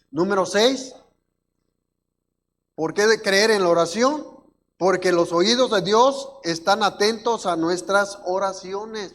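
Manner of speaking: loud sermon point with a rhetorical question; emphatic preaching. Real, not acted. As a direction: announce the point to the congregation, firmly. Preaches at full force.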